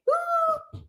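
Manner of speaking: high-pitched little "woo"; a high, airy cheer; celebratory woo. Real, not acted. Cheering for Mary using the deck, high woo.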